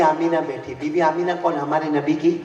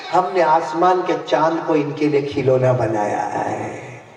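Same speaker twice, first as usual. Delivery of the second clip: solemn divine pronouncement; 2 semitones lower, 4 dB louder, slower than usual. Acted. Divine voice continues, slower.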